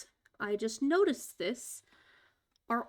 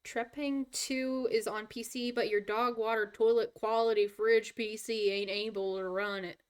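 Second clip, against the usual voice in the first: country accent. Real, not acted. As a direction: let the country accent slip. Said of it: "My country accent slipped out there".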